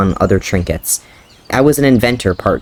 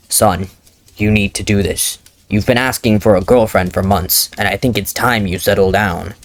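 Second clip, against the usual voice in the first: firm, grave fatherly insistence; stoic father. Acted. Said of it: "getting into character".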